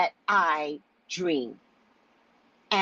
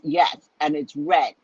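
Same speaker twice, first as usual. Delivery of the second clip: slow, drowsy "Yes, and it's red"; dazed sister; 4 semitones lower, slower than usual. Retold or imitated. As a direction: drag it out like half-asleep after anaesthesia. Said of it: "She's talking like this".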